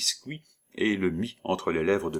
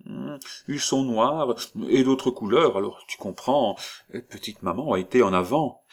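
put-on lightly higher old woman; 5 semitones higher, 3 dB louder than usual. Disguised old woman explains, a little higher. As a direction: explain vaguely.

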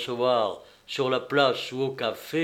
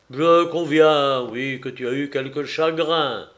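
conceding father; 4 dB louder than usual. Acted. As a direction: concede it to a daughter, lightly acted. Narrator voices the conceding father.

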